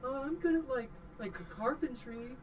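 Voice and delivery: unsure little voice offering a skill; freed worker shyly naming a trade; timid worker. Acted.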